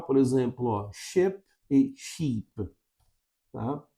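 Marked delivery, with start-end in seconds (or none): 0.9-2.5 ship short, sheep long. Shown as a demonstration. Teacher contrasts the vowels slowly. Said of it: "diferenciam por uma única vogal".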